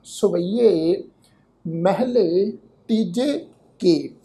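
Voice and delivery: very slow heading, each word drawn out; solemnly paced Gurbani reading; scripture recitation. Shown as a demonstration. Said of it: "ਇਸ ਸਿਰਲੇਖ ਦਾ ਪਾਠ ਹੈ".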